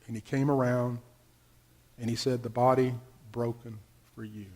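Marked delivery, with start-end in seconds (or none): 2.4-4.5 lightly voiced minister, low and soft; lower, hushed communion words; student minister. Student minister serving communion at the altar rail, lightly imitated, hushed. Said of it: "Ray Anderson ... was the student minister".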